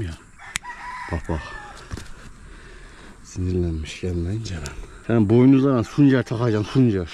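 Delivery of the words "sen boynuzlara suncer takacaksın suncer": playful scolding. Real, not acted.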